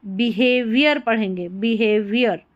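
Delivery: बिहेवियर ending in "-ar"; demonstrated pronunciation. Shown as a demonstration. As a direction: model बिहेवियर with the last syllable as अर. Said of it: "ओ आर को अर करके पढ़ा गया है". ("बिहेवियर" के अंत में अर का उच्चारण)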